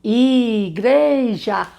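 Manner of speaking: "Igreja" bem devagar, sílaba por sílaba; sílabas marcadas. Shown as a demonstration. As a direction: separe "I-gre-ja" abrindo a boca. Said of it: "quantas vezes você abre a boquinha". ("Igreja" silabado devagar)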